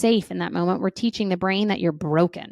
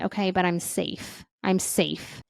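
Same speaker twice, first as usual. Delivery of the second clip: soft, reassuring "I'm safe"; calming self-talk; 2 semitones lower, 6 dB quieter than usual. Shown as a demonstration. Coach modelling what to tell the brain, soft and reassuring. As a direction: gently soothe your own brain.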